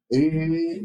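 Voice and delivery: "Eh" held long and even, as a lateral sound; continuous lateral. Shown as a demonstration. Teacher linking the sound to laterals, held steadily. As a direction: sustain "Eh" without interruption. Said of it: "asocia ya con laterales".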